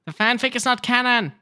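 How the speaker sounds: loud high indignant shout. Real, not acted. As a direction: yell it back in protest. Denies the fanfic claim.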